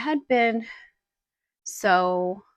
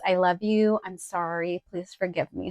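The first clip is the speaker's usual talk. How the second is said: softer, gentle recitation of the mantra; soft prayer recital; 3 semitones lower than usual. Shown as a demonstration. Teaching viewers the ho'oponopono mantra, softly recited. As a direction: say it quietly like a healing mantra. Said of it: "ho'oponopono goes like this".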